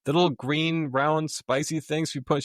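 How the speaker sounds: high-pitched, flustered reenactment; flustered explaining. Retold or imitated. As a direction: grope for the description, pitched well up. Acted baffled explanation to coffee-shop owner.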